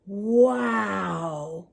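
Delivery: playful wow. Acted. Reacting to story with awe.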